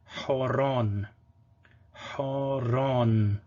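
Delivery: Horon said slowly and clearly; model word. Shown as a demonstration. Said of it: "So you would say Horon".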